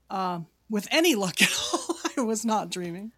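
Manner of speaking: half-whispered through a laugh; whispered aside. Shown as a demonstration. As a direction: breathe it out, a joking whisper. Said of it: "so with any luck at all".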